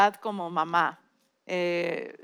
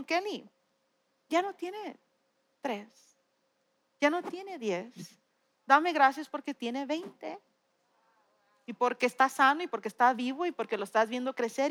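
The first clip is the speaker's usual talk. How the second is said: gentle God voice; 5 dB quieter than usual. Retold or imitated. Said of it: "Dios me habló y me dijo".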